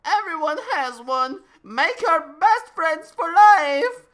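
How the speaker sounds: high, loud sales pitch call. A narrator's reading. Old man's head on a spike calls out to Harry, very loud and high. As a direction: shout it like a manic ad. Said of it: "called out from the spike".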